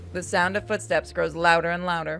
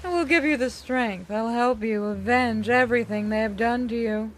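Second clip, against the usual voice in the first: 1 tempting demon voice; 3 semitones higher than usual. Acted. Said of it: "He gets that voice".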